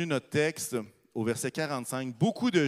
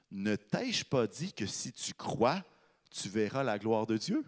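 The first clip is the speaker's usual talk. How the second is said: calm reply; 5 semitones lower, 5 dB quieter, slower than usual. Retold or imitated. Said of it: "Il va lui dire la chose suivante".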